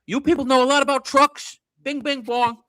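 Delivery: halting speech-room ramble; imitating Trump mid-speech; Trump impression. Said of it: "he goes low like this".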